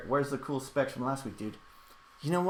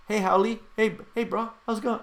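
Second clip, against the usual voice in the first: louder, high-pitched mock Hawaiian accent; fake Hawaiian accent; 9 semitones higher, 5 dB louder than usual. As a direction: call out like a poser faking Hawaiian slang. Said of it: "he picked up the Hawaiian accent".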